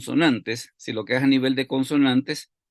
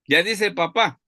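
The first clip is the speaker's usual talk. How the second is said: proud parent; 7 semitones higher, 3 dB louder than usual. Retold or imitated. Parent announcing child's word.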